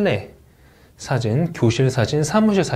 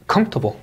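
'comfortable' with the beat on COM; first-syllable stress; much slower than usual. Shown as a demonstration. Teacher drilling word stress, first syllable strong. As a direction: hit COM and let the rest fall away. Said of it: "이름절 강세입니다".

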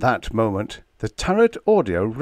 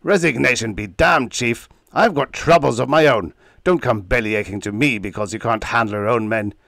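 snarl; 2 semitones higher, 3 dB louder than usual. Acted. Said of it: "Hansen snarled".

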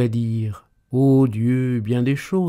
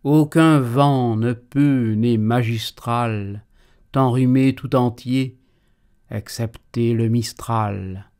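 emphatic. Acted. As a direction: lean hard on every phrase.

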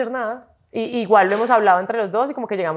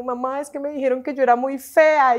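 higher-voiced hurt little girl; imitating near-tears child; 5 semitones higher than usual. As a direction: mimic a daughter about to cry. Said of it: "se monta casi llorando". (imitando a una niña casi llorando)

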